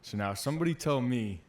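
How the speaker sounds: retold challenge from a drill instructor. Drill instructor confronting recruits over pine cones, mock demanding. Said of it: "He's like".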